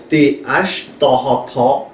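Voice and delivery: "ta, ha" said as separate, clipped syllables; Hmong sounds spelled out. Shown as a demonstration. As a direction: spell out "T H" sound by sound, then blend it. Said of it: "Par exemple".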